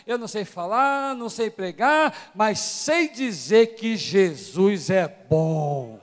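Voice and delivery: lightly voiced elderly woman, building to a slow proud finish; old sister testifying. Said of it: "ela sobe aqui e fala assim".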